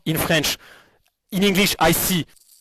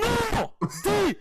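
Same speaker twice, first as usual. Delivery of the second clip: shouted no. Real, not acted. Hearing the wrong answer, shouting no. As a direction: yell out the no.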